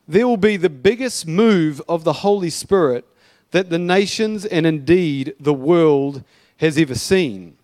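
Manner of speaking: measured, emphatic reading aloud; prophecy read-out. Acted. Preacher reads an old prophecy to church, emphatic read-out. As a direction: proclaim it in weighty phrases, with pauses.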